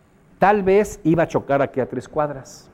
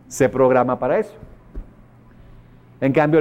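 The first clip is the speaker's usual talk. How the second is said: normal talking voice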